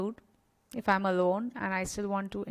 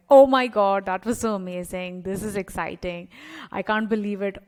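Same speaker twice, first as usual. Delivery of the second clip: emphatic excitement; 5 dB louder than usual. Shown as a demonstration. Coach showing listeners how to celebrate, excited gushing. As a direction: burst out loud on oh my God, then gush with delight. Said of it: "I will go, go more emphatic".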